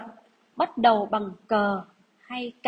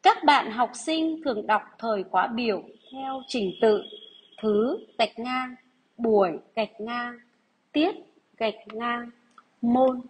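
dictation reading. Acted. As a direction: read each phrase out for pupils to write. Teacher rereads whole dictation.

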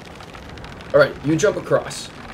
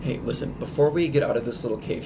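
whispered, much softer; whispering; 2 semitones lower, 6 dB quieter than usual. Real, not acted. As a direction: drop to a whisper. Hushed in little cave.

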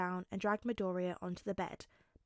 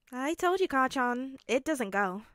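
put-on whiny boy; 3 semitones higher, 3 dB louder than usual.

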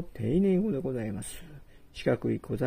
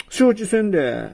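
stern threat; 3 semitones higher, 6 dB louder than usual. Acted. Host threatens the guest.

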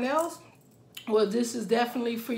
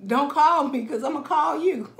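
loud, sassy dismissal with a laugh at the end; sassy brush-off; 4 semitones higher, 5 dB louder than usual. Retold or imitated. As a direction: tell him off, all sass. Acted sassy brush-off quote.

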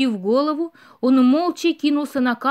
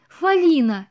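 higher, louder cry of surprise; amazed exclamation; 4 semitones higher, 5 dB louder, slower than usual. Acted. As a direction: call her name in sudden wonder. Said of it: "изумлённо воскликнул Бэмби".

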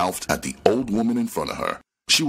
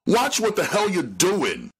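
angry cursing. A narrator's reading. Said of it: "she cursed loudly".

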